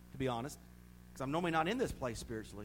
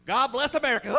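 louder, higher mock presidential line; presidential proclamation; 8 semitones higher, 10 dB louder than usual. Preacher voicing the President, a louder proud proclamation.

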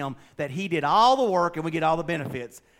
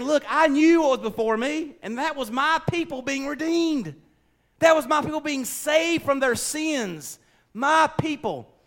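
voicing God; 11 semitones higher, 5 dB louder than usual. God speaking about redemption.

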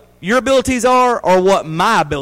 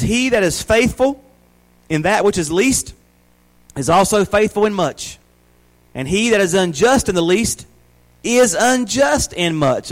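a raised, measured Bible reading; scripture reading; 2 semitones higher than usual. Acted. Pastor reading Luke to the church, measured and raised. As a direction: read the verse out to the congregation.

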